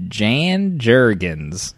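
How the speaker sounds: very slow dramatic reveal. Real, not acted. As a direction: draw it out slowly.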